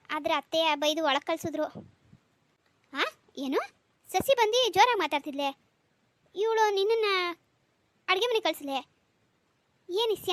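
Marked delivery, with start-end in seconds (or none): 2.9-10.3 sudden higher, louder disbelieving questions; shocked father-in-law hearing his wife shooed her away; shocked disbelief. Acted. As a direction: rear up in alarmed surprise. Father-in-law hears startling news.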